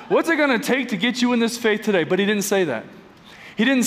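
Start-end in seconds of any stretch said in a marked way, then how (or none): 0.1-2.0 fast pushy sales pitch; used car salesman voice. Acted. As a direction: close the deal like a slick car dealer. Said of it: "That's my used car salesman voice".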